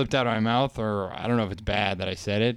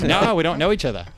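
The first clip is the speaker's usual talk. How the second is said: put-on quick, higher Australian accent; 5 semitones higher, 4 dB louder, faster than usual. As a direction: quote him with an Australian accent. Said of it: "he had an Australian accent".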